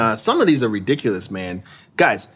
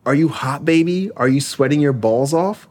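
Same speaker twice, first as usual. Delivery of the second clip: put-on baby voice. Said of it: "saying in her baby brother's voice".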